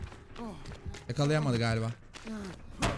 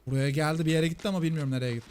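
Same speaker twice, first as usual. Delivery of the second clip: ordinary delivery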